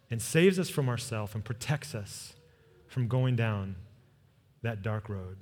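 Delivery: measured, gentle pastoral prayer; closing prayer. Real, not acted.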